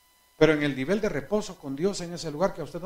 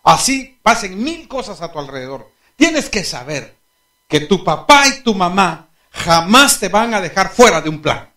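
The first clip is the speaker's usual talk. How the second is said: reassuring father; 3 semitones higher, 9 dB louder than usual. Retold or imitated. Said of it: "Yo le dije".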